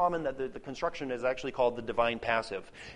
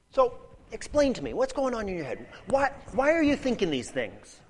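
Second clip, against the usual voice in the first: much higher, puzzled questioning voice; mock curious asker; 7 semitones higher than usual. Shown as a demonstration. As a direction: ask as though honestly baffled. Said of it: "he's not saying".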